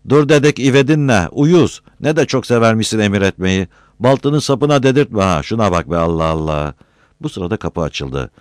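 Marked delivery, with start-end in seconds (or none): 0.1-6.7 high, loud angry outburst, easing off; exasperated retort. A narrator's reading. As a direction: lash back at the bossing. Angry comeback in acted quarrel.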